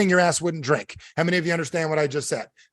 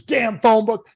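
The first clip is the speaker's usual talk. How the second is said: mild acted irritation, higher and louder; pissed off; 6 semitones higher, 5 dB louder, slower than usual. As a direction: curse it like an annoyed storyteller's character. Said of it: "So he's pissed off".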